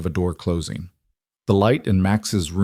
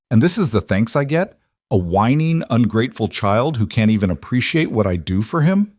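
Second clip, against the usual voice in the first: angry berating; 3 semitones higher than usual. Acted. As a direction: lash out at the ungrateful child. Marissa berates the crying child.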